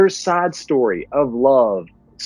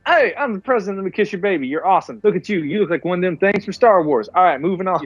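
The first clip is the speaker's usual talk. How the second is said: higher, breezy politician patter; glad-handing president; 5 semitones higher, faster than usual. Retold or imitated. The president cutting the line, breezy and higher. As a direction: kiss babies and move on, higher. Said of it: "He's like".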